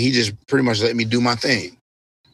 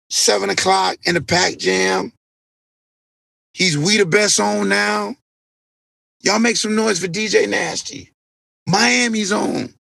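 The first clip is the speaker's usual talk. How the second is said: stage introduction; 9 semitones higher than usual. Retold or imitated. DJ stops his show to introduce a friend, high hype announcement. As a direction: imitate a DJ calling to the crowd, words stretched.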